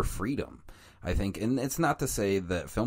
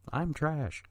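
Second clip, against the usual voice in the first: "I'm trash" laughed out, pitched higher; laughing; 8 semitones higher than usual. Real, not acted. Podcaster laughing at himself over his taste, laughing. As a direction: giggle through "I'm trash" at yourself.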